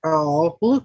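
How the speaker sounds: ordinary talk, nothing marked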